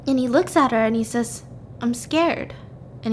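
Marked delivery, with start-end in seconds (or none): 1.8-2.5 small, higher voice, lightly acted; retold scared boy. Ethan admits fear to Anna, higher and small, retold. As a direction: act out a timid little admission. Frightened boy answers the screaming.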